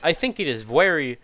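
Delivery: lightly voiced juror, pushing his point; blunt juror laying out the lie; stern Russian juror.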